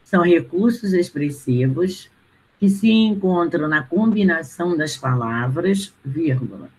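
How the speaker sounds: steady read-through of the dictation; reading back. Shown as a demonstration. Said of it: "Vou ler agora tudo que eu ditei".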